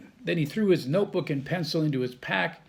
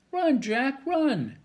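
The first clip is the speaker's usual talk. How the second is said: high loud shout to run; 10 semitones higher, 3 dB louder, slower than usual. A narrator's reading. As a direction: yell at him to flee. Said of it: "shouted Annie".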